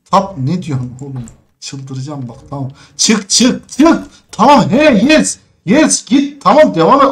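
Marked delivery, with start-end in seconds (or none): 3.0-7.1 high, loud quick urging; excited urging. Real, not acted. Gamer urging the menu to close, excited loud urging. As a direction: push the menu along eagerly.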